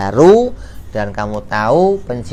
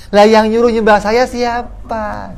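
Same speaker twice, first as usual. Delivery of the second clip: higher, louder sharp counter-question; retorting idol; 9 semitones higher, 4 dB louder than usual. Acted. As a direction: throw the blame right back.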